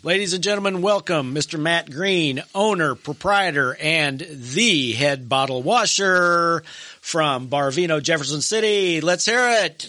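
measured build-up to the applause cue; announcer introduction. Pretend. Host bringing on the sponsor guest for applause, announcer style. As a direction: present the guest like a master of ceremonies.

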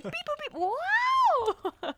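high beeping robot; toy robot voice. Retold or imitated. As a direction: chirp it like a droid. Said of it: "He's like".

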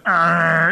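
rough growled "arr"; throaty imitated groan; imitated crash noise. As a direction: mimic the noise of a drunken tumble. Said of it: "and you hear".

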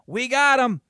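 high, loud retold cheer; excited announcement. Dad phoning son with ticket news, excited. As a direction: crow the big news like dad. Retelling dad's excited phone call.

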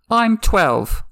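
high, loud indignant claim; loud lie. Acted. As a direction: shout the lie defiantly. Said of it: "Arya lied loudly".

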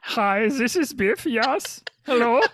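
bright, high put-on work-call voice; professional voice. Biff answers a Zoom call in his put-on professional voice. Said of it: "That's my professional voice".

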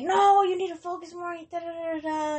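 mimicking a nagging parent. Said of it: "they were just like".

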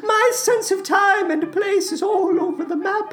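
mournful, creepy character voice, hammed-up; Salad Fingers. Creature confesses a muddled sense of time, mock-mournful. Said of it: "I am filled with a deep sadness".

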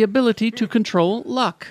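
lightly put-on British newsreader accent; BBC presenter. Host retelling the show's story, mock BBC British presenter. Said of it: "as a B B C presenter then".

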